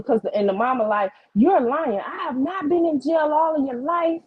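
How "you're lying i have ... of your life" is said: imitating an indignant mother, higher voice; defensive parent, re-enacted; retold denial. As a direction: protest with emphatic, raised pitch. Acted mother denying accusation.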